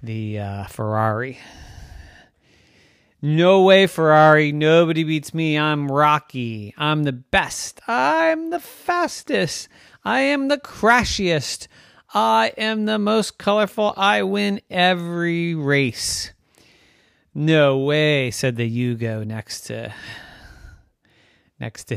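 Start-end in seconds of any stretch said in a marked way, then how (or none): 3.2-16.3 loud bragging, climbing very high; boastful. Acted. Rocky tells Ferrari he is the best, boasting. 17.4-18.3 loud objection. Acted. Yugo contradicts Rocky.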